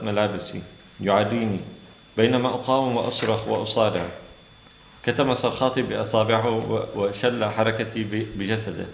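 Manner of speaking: brisk, even reading of a novel passage; قراءة سردية متواصلة; story narration. Acted. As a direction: read the excerpt steadily to an audience. Reads Arabic story passage aloud.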